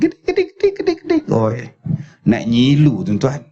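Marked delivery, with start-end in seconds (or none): 0.0-1.2 very high squeaky imitated noise; high squeaky sound effect. Shown as a demonstration. Storyteller mimicking a film sound effect, very high and squeaky. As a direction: squeak it out like a tiny creaking sound. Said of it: "Dia pun buka".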